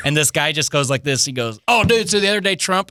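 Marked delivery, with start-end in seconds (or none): 1.7-2.9 eager bro voice. Retold or imitated. Imitating the eager fan.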